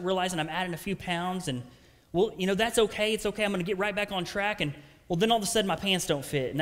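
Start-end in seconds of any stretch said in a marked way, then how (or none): 2.1-4.6 lightly acted self-reassurance, pitched higher; self-excusing. Preacher voicing himself excusing the added pounds, mildly self-excusing. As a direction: excuse yourself in a slightly raised voice. Voices his own excuse for slipping.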